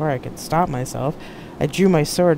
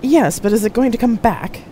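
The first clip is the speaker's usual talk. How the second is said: raised, higher, booming challenge; loud admiral; 8 semitones higher, 6 dB louder than usual. A narrator's reading. Big admiral challenging Jack about the seed ship, loud. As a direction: demand an answer loudly. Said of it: "bigger than Merrick and louder".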